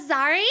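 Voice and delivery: "sorry" as a tentative SAR-ee, rising; American "sorry". Shown as a demonstration. Streamer testing the American way, "sorry" as SAR-ee. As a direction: question "sorry" with an open AH. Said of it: "is that how you say it?".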